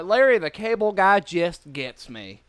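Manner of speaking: slow, lightly put-on Southern accent. Imagining a Southern fan of the comedian, Southern accent. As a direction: draw it out in a mild Southern accent. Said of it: "if you're a Southern guy".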